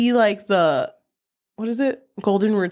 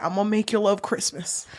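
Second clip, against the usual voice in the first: singer's voice. Pretend. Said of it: "Sorry, I'm Elvis".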